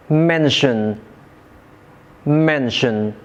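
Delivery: MENTION said MEN-tion, stress up front; "mention" with the weight on "men"; first-syllable stress. Shown as a demonstration. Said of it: "the stress is placed on the first syllables".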